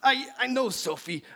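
high, nasal-free nerdy professor; nerdy scientist voice. Acted. Plays Beekman.

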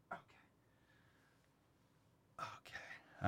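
breathy near-silent okay; just breathe the word out; hushed whisper so the dog isn't startled. Real, not acted. Whispered aside.

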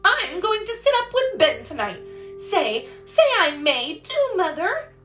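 high, loud, insistent begging; pleading. A narrator's reading. Daughter asking mother to let her sit up, pleading. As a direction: beg for permission with rising urgency.

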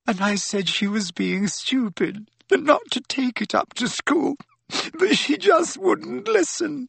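very high, tearful wail; renewed sobs. A narrator's reading. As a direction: cry harder until the words break down. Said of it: "Leanne shook with renewed sobs".

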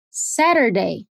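careful American "Saturday", flapped t. Shown as a demonstration. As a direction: say "Saturday" with the first t tapped like D. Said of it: "Vamos treinar mais algumas palavras".

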